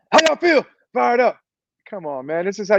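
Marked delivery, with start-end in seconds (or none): 0.1-0.7 hype call. Shown as a demonstration. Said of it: "there's only one response". 0.9-1.4 crowd answer. Retold or imitated. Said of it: "there's only one response".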